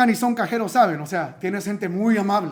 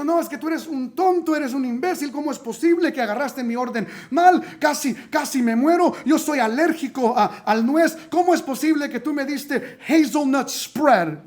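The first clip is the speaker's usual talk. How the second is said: higher, louder mock complaint about a wrong order; hammed-up customer yelling at the cashier; angry customer rant; 5 semitones higher, 3 dB louder than usual. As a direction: play the furious allergic customer.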